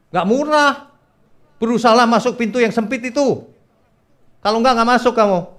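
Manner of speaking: high, loud pulpit exhortation; forceful preaching. Acted. Preacher warns the congregation about the narrow door, forceful.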